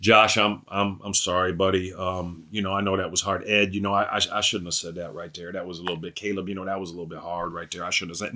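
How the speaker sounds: smooth it over gently, like saying sorry to buddies; mock apology. Jesus pretending to apologize to disciples, hushed. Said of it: "instead of saying".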